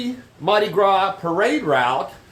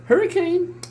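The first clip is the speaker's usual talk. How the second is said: much higher sing-song pet call; 13 semitones higher than usual. Real, not acted. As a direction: sing the cat's name up high. Calling the cat again.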